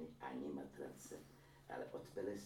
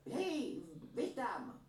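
higher, louder call across the room; 6 dB louder, much slower than usual. A narrator's reading. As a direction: call him in from the kitchen. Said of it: "vykřikla stařenka". (hlasité zvolání stařenky na Bucifala)

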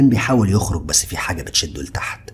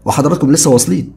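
a hint of polite waiter; 8 semitones higher, 8 dB louder than usual. A narrator's reading. Hotel waiter voiced.

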